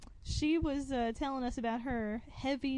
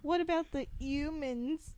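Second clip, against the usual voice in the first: "humans" with the H dropped, New York style; heavy New York accent on "humans". Retold or imitated. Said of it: "I have a heavy New York accent".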